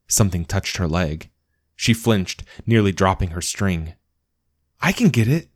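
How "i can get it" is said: small dog's voice. Acted. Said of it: "Bjorn said".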